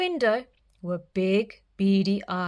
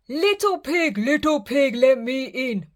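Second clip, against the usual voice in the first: bellowing wolf; 4 semitones higher than usual. Acted. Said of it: "bellowed the wolf".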